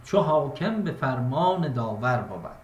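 measured verse reading; plain, steady recital of a verse; reading verse aloud. Shown as a demonstration. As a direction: read the line as a poem.

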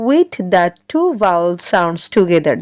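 very slow, word by word; slow dictation for class six; broken into chunks. Shown as a demonstration. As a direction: read it out slowly, piece by piece. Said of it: "একটু ভেঙে ভেঙে বলবো".

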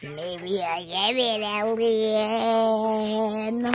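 slow, otherworldly alien voice; drawn-out alien drone. Acted. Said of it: "You sound like an alien".

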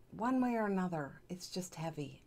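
normal talking voice

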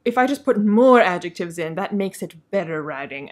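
lightly voiced self-satisfied author; a touch of mock self-congratulation; mock try-hard author. Reviewer parodying the author addressing the reader, lightly smug. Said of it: "so try hard".

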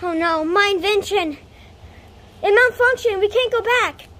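dismayed. Acted. Inventor telling Pappy they are stranded, dismayed. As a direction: announce the bad news in dismay.

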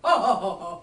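loud, spaced-out fake ha-ha; mocking laugh. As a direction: laugh along sarcastically. Mocking reply to friend's joke.

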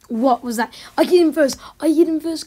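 loud, high furious yell; raging gamer. Real, not acted. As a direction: scream it like you were robbed. Gamer raging over kill.

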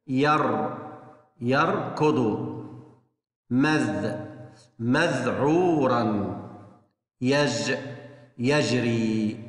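ير then the whole يركض, stopping on the syllable first; syllable-by-syllable model reading; syllable then word. Shown as a demonstration. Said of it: "نقرأ الثلاث كلمات هذول مرة بالمقطع الساكن".

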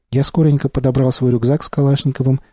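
plain reading voice

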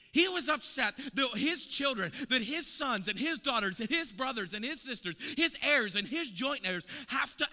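loud, high preaching build; full-force preaching. Acted. Preacher building fire for the congregation, loud high preaching. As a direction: preach it out, pressing harder.

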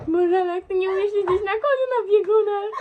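laughing exasperation. Real, not acted. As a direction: laugh through the words. Laughing at friend's riding.

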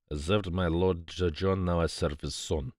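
a grave, measured figure of a loyal servant. Acted. Hassan answering Poirot about his late master, loyal and measured.

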